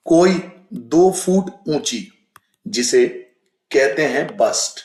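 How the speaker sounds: slow, deliberate textbook reading; passage reading. Acted. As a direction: read the prose aloud with care. (धीमा पाठ-वाचन)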